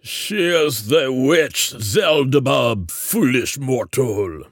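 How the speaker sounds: slow, high-pitched monster growl. A narrator's reading. Ogbert introducing the witch to Joel, growling. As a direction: growl it scornfully at a lowly human. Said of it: "Ogbert growled".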